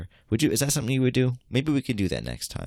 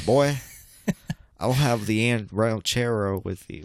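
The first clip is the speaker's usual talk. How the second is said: MAGA diner; 3 semitones higher than usual. Retold or imitated. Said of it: "Make America Great Again hat on".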